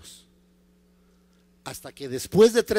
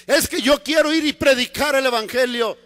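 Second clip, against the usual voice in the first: higher, insistent objection; Paul protesting; 4 semitones higher than usual. Acted. Paul objects to the Lord's delay, insistent protest. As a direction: protest as an eager, impatient Paul.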